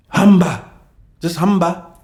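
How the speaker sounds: loud, high, curt send-off; angry dismissal. Real, not acted. Streamer telling a complaining viewer to go, angrily. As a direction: fire it out as an order to leave.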